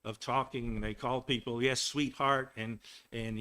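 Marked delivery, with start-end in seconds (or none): 1.6-2.5 put-on sing-song Southern accent. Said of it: "they're sing-song, they go up and down".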